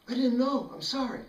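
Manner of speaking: high, hurried scared apology; frightened apology. Retold or imitated. Bully apologizing to Michael's little brother, high and scared. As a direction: squeak out the sorry.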